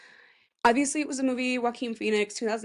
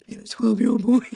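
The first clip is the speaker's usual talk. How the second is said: mock comment; 6 dB louder than usual. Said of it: "a voice like this".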